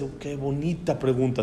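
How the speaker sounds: put-on soft, tender praise for a child. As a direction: coo it gently like praising a child. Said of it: "así lo, lo, le da mucho cariño". (elogio tierno y suave)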